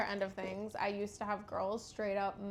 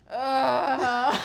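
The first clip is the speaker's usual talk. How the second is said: loud moan; 2 semitones higher, 10 dB louder than usual. Retold or imitated. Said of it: "and she's like".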